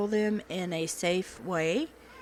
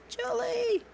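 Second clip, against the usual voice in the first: excited call. Real, not acted. Calling name again.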